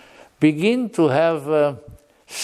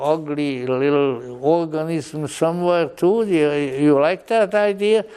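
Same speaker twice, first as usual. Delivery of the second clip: higher-pitched teasing challenge; mock questioning; 4 semitones higher than usual. Blavatsky mocking evolution to her audience, teasing. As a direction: poke fun with needling questions. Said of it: "she used to make fun of evolution".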